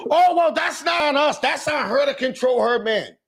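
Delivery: high, mocking girly voice; mocking a girl. Friend mocking the girl who brushed off blame, mock high voice. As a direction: toss it off like it's not your problem. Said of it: "I had a girl tell me yesterday".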